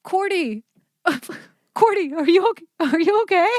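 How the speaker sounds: high, laughing mock concern; imitating stifled laughter. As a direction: ask if she's okay while fighting a laugh. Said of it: "I hear Maddie in the back seat and she's like".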